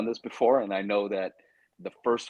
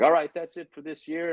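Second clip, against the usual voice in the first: higher-pitched imitation of an announcer; retold announcer; 8 semitones higher than usual. Caller ending the callbacks for the year, retold announcement.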